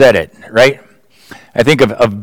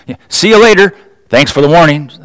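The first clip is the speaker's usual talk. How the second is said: teasing retort; 4 semitones higher than usual. Retold or imitated. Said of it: "they'd say something like".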